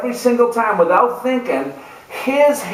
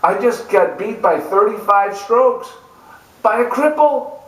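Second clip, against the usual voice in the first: begging; 3 semitones higher than usual. Retold or imitated. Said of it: "I went to her begging".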